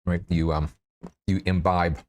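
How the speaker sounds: words round a mouthful of ice. Real, not acted. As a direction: talk with ice in your mouth. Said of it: "Sorry, ice in my mouth".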